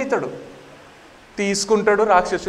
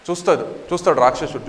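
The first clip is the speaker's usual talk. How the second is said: ordinary delivery, nothing marked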